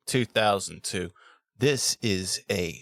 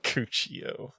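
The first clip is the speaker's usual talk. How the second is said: whispered name; 2 semitones higher, 6 dB quieter than usual. Shown as a demonstration. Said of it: "C O C C I O".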